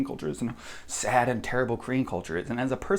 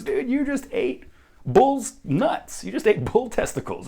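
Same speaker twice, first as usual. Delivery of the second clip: mocking locals; 6 semitones higher, 4 dB louder, slower than usual. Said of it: "everyone laughs and goes".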